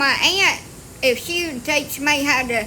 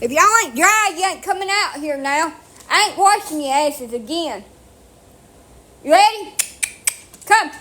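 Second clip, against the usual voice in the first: raised, higher call to the dogs; 5 semitones higher than usual. Real, not acted. Owner calling her dogs out of the house, raised voice. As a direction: call them in like a farm owner.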